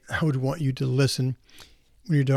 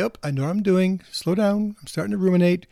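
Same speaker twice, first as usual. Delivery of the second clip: higher-pitched, gentle note to self; gentle self-talk; 4 semitones higher than usual. Retold or imitated. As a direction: catch yourself kindly, pitched up. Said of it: "very gently stop and say".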